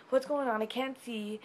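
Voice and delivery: understated panicked outburst; retold freak-out. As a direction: replay a moment of alarm, lightly. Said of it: "I'm freaking out".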